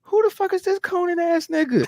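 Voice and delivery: high, disbelieving outburst; can't-believe-it rant; incredulous. Retold or imitated. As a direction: sound shocked at the sight. Retelling his disbelief.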